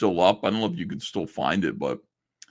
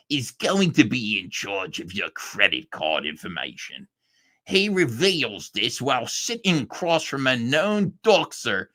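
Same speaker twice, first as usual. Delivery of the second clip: mocking tweet read. Reading Liam's tweet to viewers, mocking put-on voice. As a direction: read his words back like you're making fun of him. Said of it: "Liam Gray says".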